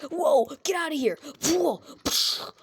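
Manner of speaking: high, loud alarmed shout; startled yell. Acted. Michael yelling in alarm at Bonnie at the door. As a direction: yell as the bunny lunges.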